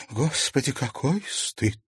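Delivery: soft, slow shamed whisper; humiliated lady whispering; ashamed whisper. A narrator's reading. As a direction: breathe it out in shame. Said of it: "шептала Алена Александровна".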